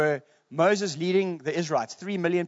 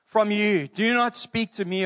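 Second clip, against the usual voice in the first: firm, measured mock rebuke; mildly angry God, read aloud; 3 semitones higher, slower than usual. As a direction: lay down the law, ending slowly. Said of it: "the Lord was angry with me".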